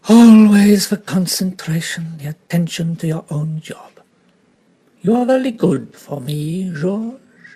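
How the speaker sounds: lightly voiced Belgian detective; a hint of a courteous French-accented detective; Poirot voice. Poirot to George.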